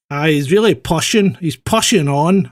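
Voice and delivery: lightly mimicked Northern Irish commentator, drawn out at the end; imitated Northern Irish accent. Co-host mocking a racing commentator's speech, Northern Irish accent imitation. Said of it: "She's from Northern Ireland".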